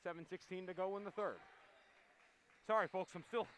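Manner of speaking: winded after running upstairs; out of breath, still panting. Real, not acted. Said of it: "ah, catching my breath".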